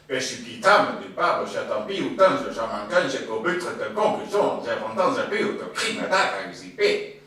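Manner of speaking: loud, high fake French sound poem. Shown as a demonstration. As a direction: declaim invented French words with loud high pitch. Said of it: "fake French words".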